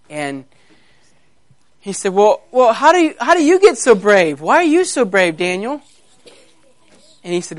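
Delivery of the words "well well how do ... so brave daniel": higher, wondering cub voice; timid baby lion. Acted. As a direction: ask eagerly as a little lion. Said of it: "here was a little baby lion".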